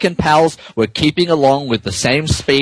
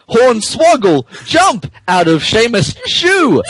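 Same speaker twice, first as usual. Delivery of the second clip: shout; 7 semitones higher than usual. Acted. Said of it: "he was shouting Irish cusses".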